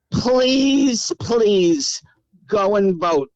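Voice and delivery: drawn-out, earnest plea; pleading. Real, not acted. Aunt begs people to go and vote, pleading. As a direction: stretch each word as a heartfelt appeal.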